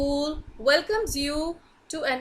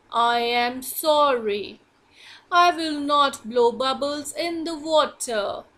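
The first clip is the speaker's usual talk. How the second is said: hippo apologising to frog, lightly lowered voice; big hippo apologising. Acted.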